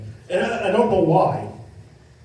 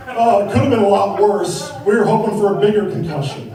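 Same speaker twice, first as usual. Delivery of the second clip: disappointed; 4 dB louder than usual. Retold or imitated. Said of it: "sounded like she was disappointed".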